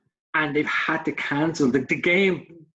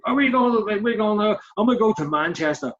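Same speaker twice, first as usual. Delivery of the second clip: mock passerby; 5 semitones higher than usual. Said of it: "minding your own business going".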